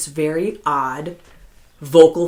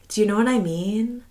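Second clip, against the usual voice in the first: "Do you know what I MEAN" lifted at the end; quieter, higher mimicked uptalk, rising through "I mean"; 4 semitones higher, 4 dB quieter than usual. Giving an example of young Americans' speech, uptalk rising on "mean". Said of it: "like, there's a question at the end".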